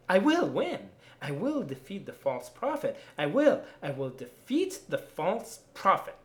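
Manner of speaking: defiant vow. Acted.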